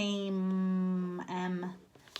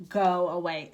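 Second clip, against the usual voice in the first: a light shout from the pigeon; mild mock shout; 6 dB louder than usual. Shown as a demonstration. Teacher voicing Pigeon shouting at the little duckling. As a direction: go away said louder, pigeon shouting. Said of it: "Pigeon to shout at".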